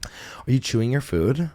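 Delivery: slow, measured question with a rise; imitated dietitian question. Dietitian friend asking about digestive problems, slow measured question. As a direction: ask it slowly, like a dietitian checking. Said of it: "she goes".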